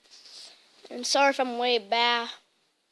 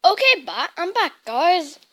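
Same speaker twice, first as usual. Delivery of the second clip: mock British accent, higher pitched; put-on British accent; 4 semitones higher, 4 dB louder than usual. Streamer greeting viewers back, in a put-on British accent. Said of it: "sorry for the British accent".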